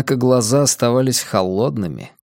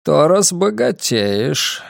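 put-on slow, cold old man, higher pitch; a frail, scheming old man, lightly voiced; 4 semitones higher, slower than usual. Old man character speaks.

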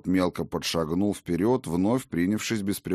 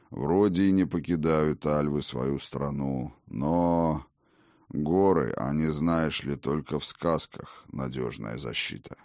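put-on low, sincere old god marveling; a mild touch of wonder, low; surprised old king; 4 semitones lower than usual. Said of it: "искренне удивился Один".

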